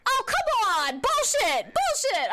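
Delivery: high, loud frustrated yell; angry outburst. Real, not acted. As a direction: shout it in real outrage. Ghost guess proven wrong.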